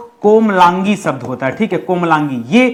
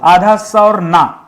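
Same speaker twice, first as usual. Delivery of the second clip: spelled out slowly. Shown as a demonstration. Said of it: "देखिए, पहले ज्योत होता है".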